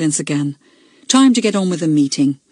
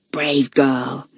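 hissed; 4 semitones lower than usual. A narrator's reading. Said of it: "he hissed".

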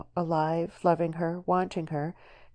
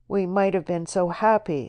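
accusingly; 3 semitones higher, 7 dB louder than usual. Acted. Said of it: "he said accusingly".

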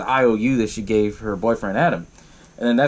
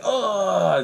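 pained groan; 6 semitones higher than usual. Retold or imitated. Retold victim hurt by drill.

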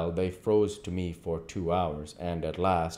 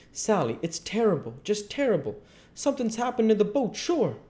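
put-on high, dithering old gentleman voice; a fretting old man wringing his hands, pitched up and hurried in places; worried old Silas; 11 semitones higher, 4 dB louder than usual. Old Silas frets to Sally about the missing boy, high and dithering.

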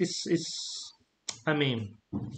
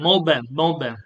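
short phrase repeated in Catalan accent. Shown as a demonstration. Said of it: "I'm doing the Catalan accent".

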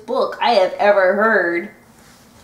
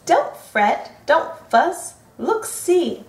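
squeaky mouse; 5 semitones higher, slower than usual. Acted. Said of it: "Mouse squeaked".

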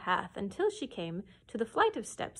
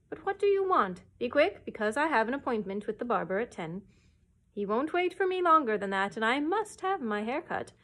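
louder, impatient royal scolding; irritable king; 4 dB louder than usual. Acted. A touch of an impatient king scolding the cow. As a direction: snap at the cow to hurry. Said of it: "he added irritably".

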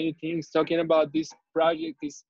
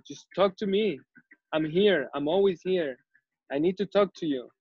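more aggressive; 3 semitones higher than usual. Retold or imitated. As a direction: insist on being heard, lightly imitating the statue. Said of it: "and more aggressively".

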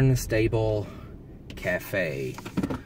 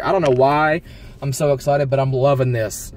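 1 excited; 2 semitones higher, 4 dB louder than usual. Real, not acted. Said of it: "I'm getting real excited here".

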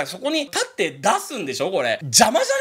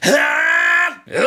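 growled shout; 8 semitones higher, 6 dB louder than usual. Shown as a demonstration. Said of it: "クローズって音程を変えに行くと".

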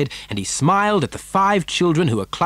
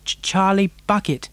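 timid stammer, pitched high; higher, hesitant little voice; small nervous voice; 7 semitones higher than usual. A narrator's reading. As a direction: stammer your name shyly. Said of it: "a small, nervous voice whispered".

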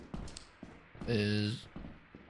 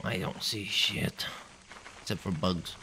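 whispering; 8 dB quieter, slower than usual. Real, not acted. Sneaking in dark hangar.

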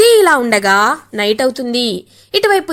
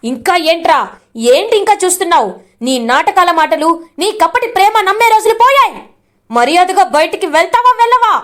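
angry ultimatum; 4 semitones higher than usual. Acted. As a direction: drive him out of the house. Brother throwing out the husband.

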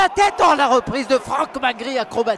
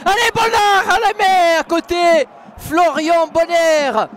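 excited build-up call; 3 semitones higher, 4 dB louder, slower than usual. Real, not acted. Radio commentator, attack on goal.

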